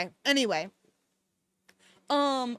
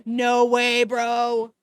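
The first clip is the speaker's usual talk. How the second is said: stunned outburst; 3 semitones lower, 6 dB louder, much slower than usual. Real, not acted. Stunned by plot reveal.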